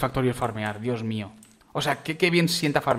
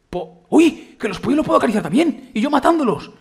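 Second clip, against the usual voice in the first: higher, louder, laughing surprise; surprised laugh; 8 semitones higher, 6 dB louder than usual. Real, not acted. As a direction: laugh at finding out you can pet the chickens. Descubre que puede acariciar pollos. (sorpresa con risa, más agudo y fuerte)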